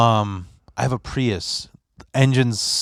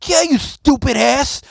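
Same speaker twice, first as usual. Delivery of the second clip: much higher, laughing voice; mocking friend; 12 semitones higher than usual. Friend mocking the driver for going too fast, much higher, laughing. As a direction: laugh at his stupidity. The friend mocking his speed.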